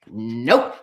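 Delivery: low, drawn-out "nope"; unbothered low duck reply; deadpan duck. Acted. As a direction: answer low with a long n. Duck answers cat's quiz in story.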